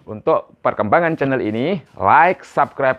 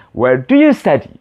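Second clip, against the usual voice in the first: model phrase; 4 dB louder than usual. Shown as a demonstration. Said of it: "repeat sample after me".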